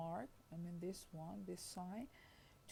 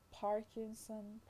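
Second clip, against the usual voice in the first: Parkinson stressed on PAR, slowly; stress on first syllable; 2 semitones higher, slower than usual. Shown as a demonstration. Lecturer reads out an example, stress on first syllable. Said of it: "Parkinson is a stress on the first syllable".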